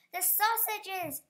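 high, slow cry of alarm; yell. A narrator's reading. Farmer crying out about the lost sausages, high alarm. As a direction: wail it in dismay. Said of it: "yelled the farmer".

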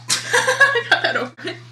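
laughing mimic. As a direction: echo it high, through laughter. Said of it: "repeating partner's line".

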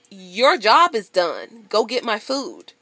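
telling the staring cashier off, slow and loud; retold rebuke. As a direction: lay down the law, slowly and firmly. Retold rebuke to drive-thru girl.

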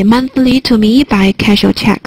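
slow, every key word, Monthly, me, cash, check, stressed; stress demo. Shown as a demonstration. Teacher replaying the sentence for students, slow stressed read. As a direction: spell out the stresses slowly. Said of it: "三个重音单词".

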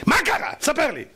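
high-pitched demanding question; acted astonishment. Lecturer probing what happened to the husband, high astonished questioning. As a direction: jump up in pitch, wanting to know.

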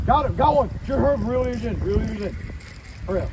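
high, loud, urgent calling; excited calling out. Real, not acted. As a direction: call it out over the water. Catches fish, calls out to friend.

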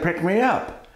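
high-pitched calling voice; small, high plea from out of sight; unseen voice calling. Acted. Unseen voice calling to old man.

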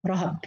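رهب as rahab, a after r and h; both letters open. Shown as a demonstration. Teacher recapping the third reading, both letters open. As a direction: say رهب with two short a vowels. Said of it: "قرأها بفتح الاثنين".

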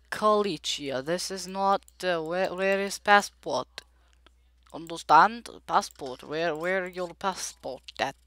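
badly faked Russian accent; attempted Russian accent. Player as border guard demands passport, shaky attempt at Russian accent. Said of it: "I'm trying to do a Russian accent".

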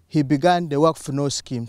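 ordinary talk

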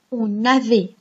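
"On avait" linked with an n sound; liaison. Shown as a demonstration. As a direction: join "On" to "avait" through the n. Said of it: "On fait la liaison". (« On avait » avec la liaison en n)

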